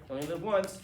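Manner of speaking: breezy throwaway yolo; flippant slogan. Retold or imitated. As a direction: toss it off as an excuse. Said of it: "Here's the thing".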